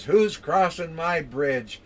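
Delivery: slow, menacing troll challenge. Acted. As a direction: growl it out slowly like a troll guarding its bridge. Troll voiced in the told story.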